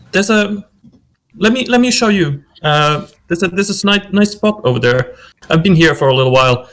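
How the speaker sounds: nervous host who can't stop talking; babbling eagerly. Acted. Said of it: "starts talking really, like, uh, incessantly".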